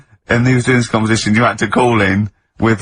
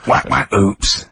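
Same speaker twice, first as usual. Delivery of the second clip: silly sound effects; 4 semitones lower, much slower than usual. Shown as a demonstration. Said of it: "I can do sound effects".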